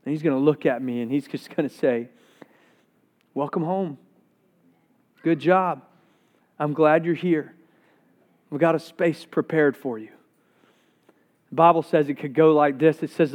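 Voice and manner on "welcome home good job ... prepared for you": softly spoken, with long pauses between phrases; gently receive someone home, unhurried; understated, quiet welcome; tender welcome. Acted. Acting out Jesus welcoming him home.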